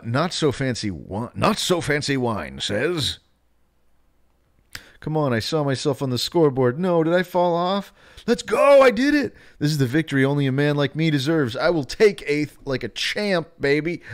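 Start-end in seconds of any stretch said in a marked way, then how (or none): 5.0-14.0 high, loud, fast victory yelling; hammed-up winner's boast; hyped celebration. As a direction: cheer yourself on like a champ. Reading a chat message in voice.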